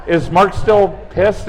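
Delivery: slow, chuckling through the words; half-laughing check-in; laughing question. Real, not acted. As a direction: ask it while still laughing. Retelling funny exchange, laughing.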